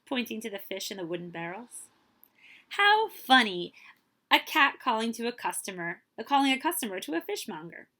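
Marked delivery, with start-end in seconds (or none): 2.7-7.9 light laugh. Acted. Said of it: "She laughed lightly".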